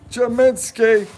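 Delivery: high, punchy name call; playful shout. Pretend. Duke fan cheering an old player, high playful shout.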